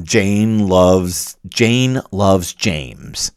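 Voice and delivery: Jane loves James spoken slowly word by word; slow dictation. Shown as a demonstration. Setting out the example sentence for students, slow and deliberate. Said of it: "Let's say I write a sentence out".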